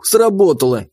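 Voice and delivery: ordinary delivery, nothing marked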